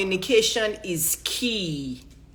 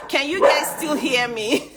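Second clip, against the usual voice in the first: laughing; 5 semitones higher than usual. Real, not acted. Laughs during chaos.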